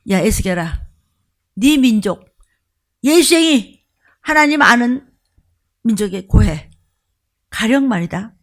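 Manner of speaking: forceful divine address; God speaking. Retold or imitated. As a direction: call Ezekiel with authority. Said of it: "뭐라 하냐".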